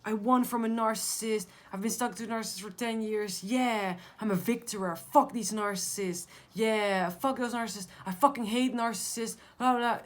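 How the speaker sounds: mock the people who claim they beat it; mocking boastful survivor. Mocking fake survivors to viewers, boastful jeer.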